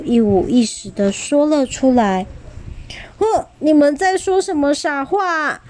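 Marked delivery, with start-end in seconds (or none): 3.2-5.6 耳语. Acted. 霸王龙回答宝宝们.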